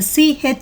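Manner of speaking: "ch" said alone as a short "chuh". Shown as a demonstration. Teacher summing up the first word list, distinct "ch". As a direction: give an isolated "ch" syllable. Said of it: "are pronounced as ch".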